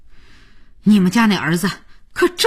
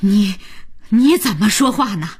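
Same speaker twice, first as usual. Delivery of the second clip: indignant; 9 semitones higher than usual. A narrator's reading. Grandma's quarrel.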